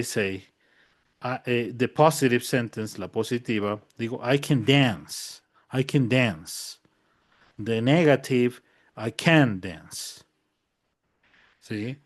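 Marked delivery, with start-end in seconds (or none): 4.2-6.8 "I can dance" with the weight on "dance"; stress on dance. Shown as a demonstration. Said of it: "Where is the accent?". 9.0-10.2 "I can dance" with the weight on "can"; stress on can't. Shown as a demonstration. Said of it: "dónde está la fuerza de la voz en la negativa".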